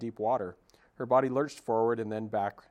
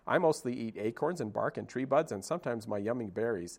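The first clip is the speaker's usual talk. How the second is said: chatty squirrel. Acted. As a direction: rattle on like an excited squirrel. Squirrel chatters about food.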